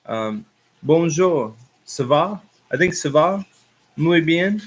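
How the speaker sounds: slow, halting French accent, digging for words; rusty school French. Real, not acted. Recalling school French for a Parisian viewer, halting accent. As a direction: fumble through school French. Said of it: "let me think if I know more, more French".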